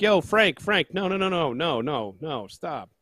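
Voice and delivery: high rapid-fire pleading, tapering off; mock urgent warning. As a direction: frantically call off an overdoing friend. Acts out stopping an over-pouring cook.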